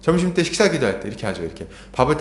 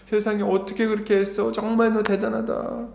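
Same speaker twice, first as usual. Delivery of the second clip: high-pitched ooh, raised admiring voice; imitated amazed praise; 6 semitones higher than usual. Preacher imitating people praising a returned missionary, amazed. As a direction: mimic someone marveling at a feat. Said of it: "놀라면서 칭찬하죠".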